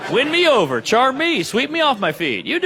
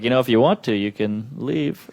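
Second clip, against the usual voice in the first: deadpan; 5 semitones lower than usual. Retold or imitated. His flat reply in own voice.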